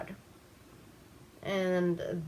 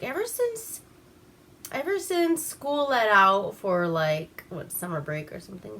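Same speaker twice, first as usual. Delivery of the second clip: lightly voiced wife. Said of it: "she's like".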